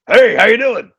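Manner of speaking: Crash. Shown as a demonstration. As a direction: put on a horrendous voice for a weird old guy. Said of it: "made him sound like he was, like, a weird old fifty-year-old man".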